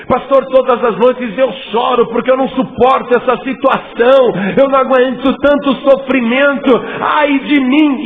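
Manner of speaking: lamento alto e choroso, imitando quem chora todas as noites; mock lament. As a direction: imite o fiel que se queixa chorando. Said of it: "Você que tem chorado demais". (lamento choroso e exagerado de fiel ao pastor)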